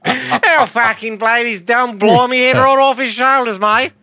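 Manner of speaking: high, hammed-up posh British accent, laughing through it; a high squeaky upper-class Brit threatening to kill; over-the-top posh British accent with a laugh; mock posh British accent. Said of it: "posh British accent".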